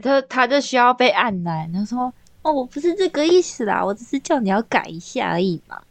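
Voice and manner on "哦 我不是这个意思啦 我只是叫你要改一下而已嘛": 装傻. Retold or imitated. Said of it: "我现在都会用这种态度".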